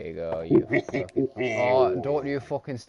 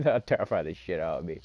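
jump scare laugh; 5 semitones lower than usual. Real, not acted. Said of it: "Don't fucking jump scare me".

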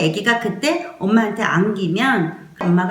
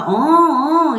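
soothing mother; 6 semitones higher, 4 dB louder, much slower than usual. Shown as a demonstration. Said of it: "이렇게 했는데도".

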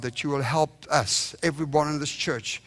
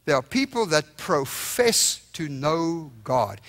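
slow reading; slower than usual. Shown as a demonstration. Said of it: "Read that with me".

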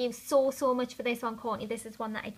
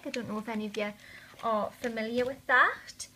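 whispering. Real, not acted. Aside to viewers.

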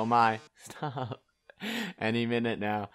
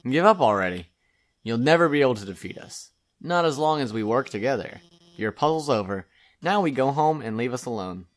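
defiant shout; 4 dB louder than usual. Acted. Alphys shouting at Mettaton.

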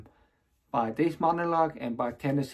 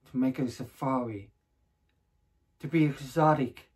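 deliberate stage delivery with long pauses; measured, acted speech, pausing between thoughts; dramatic monologue. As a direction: perform it as a theatrical monologue, phrase by phrase. Continues the performed monologue.

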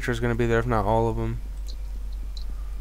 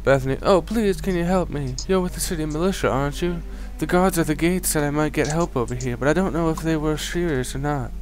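put-on higher, pleading young woman voice; frightened townswoman; 4 semitones higher than usual. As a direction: plead for help as a scared villager.

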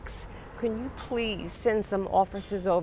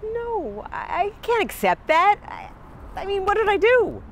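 shrill anger; 10 semitones higher, 3 dB louder than usual. Acted. Refuses warning, outraged.

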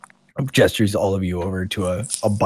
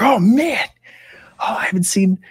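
awed gasp; 11 semitones higher than usual. Acted. Boys gawk at arriving elf.

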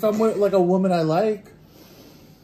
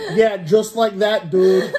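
slow, louder hammed-up bedroom line; mock seductive; 3 semitones higher, 5 dB louder, slower than usual. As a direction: drag it out like a bad porn line. Teasing friend with mock sex talk.

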